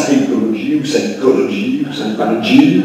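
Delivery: psychologie then psychologie with moved stress, then psychology said the English way; shifting word stress. Shown as a demonstration. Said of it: "il faut apprendre si c'est". (accent déplacé sur psychologie puis psychology à l'anglaise)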